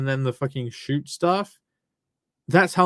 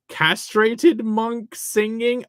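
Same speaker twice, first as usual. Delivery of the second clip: high-pitched; 6 semitones higher, much slower than usual. Pretend. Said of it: "I did the fucking singing".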